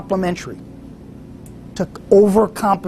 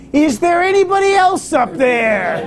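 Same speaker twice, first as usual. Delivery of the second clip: high, disbelieving punchline through a laugh; incredulous question; 9 semitones higher than usual. Retold or imitated. Hiker asks if anybody else is up there, high incredulous laugh. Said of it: "He says".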